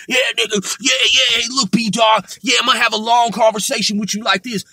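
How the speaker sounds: mock hard rambling, stuttering over filler words; put-on tough rapper talk, hurried in bursts; a rapper. Vlogger mocking how Shotty had to ramble, impression of a rapper. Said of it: "I'm gonna sound like Tupac".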